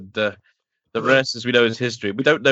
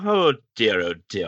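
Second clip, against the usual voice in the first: second Doctor impression; 2 semitones lower than usual. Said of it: "do I have to".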